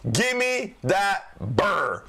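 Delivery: very slow, high put-on drawl; hammed-up slow drawl asking for a beer; silly drawled voice. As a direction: stretch it out like a goofy beer lover. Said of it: "I said it like that for a reason".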